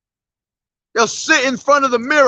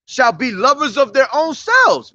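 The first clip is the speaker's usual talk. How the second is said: scripture reading. Real, not acted. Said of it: "I'm gonna read Second Timothy".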